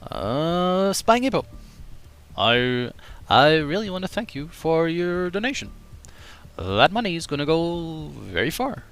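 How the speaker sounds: lightly voiced Obama thanking a donor; Obama impression. Shown as a demonstration. Streamer as Obama thanks Spying Hippo for donation. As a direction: politician promising to remember. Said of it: "Best Obama impression I've ever heard".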